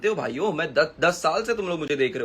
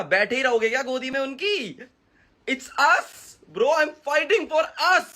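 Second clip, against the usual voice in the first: high-pitched, pleading frustration; exasperated plea; 7 semitones higher than usual. Real, not acted. Creator urges rival's fans to wake up, exasperated. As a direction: appeal high, urging them to get it.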